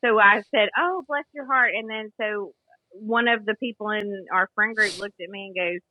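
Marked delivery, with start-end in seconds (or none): 0.8-1.7 higher-pitched retold sympathy; affectionate imitation of own sympathy; endearing. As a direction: coo it kindly, lifted on the "oh". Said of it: "you know, endearing".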